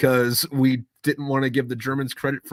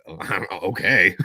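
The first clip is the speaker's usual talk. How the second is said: mock Germany shrug; 3 semitones lower, 3 dB louder than usual. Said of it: "Germany said".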